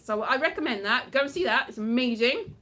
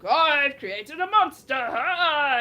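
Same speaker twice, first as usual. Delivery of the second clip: slow, louder, hammed-up exclamation; mock-horrified creator; 2 semitones higher, 6 dB louder, slower than usual. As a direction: proclaim it like a melodramatic mad scientist. Acts out the doctor's exclamation.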